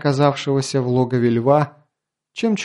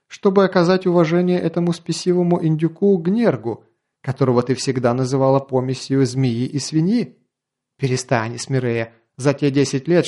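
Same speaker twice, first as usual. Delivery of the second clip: mocking, raised and pushy; sneering grin. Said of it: "Её собеседник осклабился". (с насмешливым оскалом)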